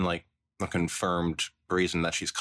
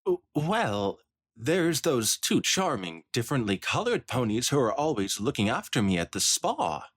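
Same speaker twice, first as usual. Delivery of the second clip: snooty pony matron; 5 semitones higher than usual. Acted. Spoiled Rich boasting about the spa ponies, lightly haughty. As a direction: play it like a spoiled socialite bragging.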